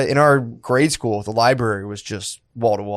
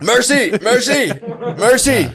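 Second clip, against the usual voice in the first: mock begging; 11 semitones higher, slower than usual. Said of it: "do you hand them something to hit you with".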